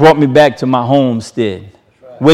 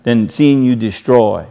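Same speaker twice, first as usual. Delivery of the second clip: hushed, tender echo of the divine word; softer retelling; 3 semitones lower than usual. Acted. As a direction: say it again gently, as a tender promise. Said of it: "This is what he's saying".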